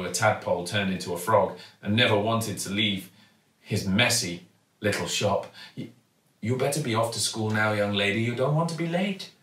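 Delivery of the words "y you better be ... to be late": kindly shopkeeper. Acted. Raj sends her to school.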